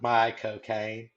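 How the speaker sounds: slow, drawn-out my cocaine in Caine's manner; Michael Caine impression. Host repeats the Caine joke back, slow and drawn out. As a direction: echo my cocaine slowly, Caine style. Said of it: "you wanna say Michael Caine like Michael Caine".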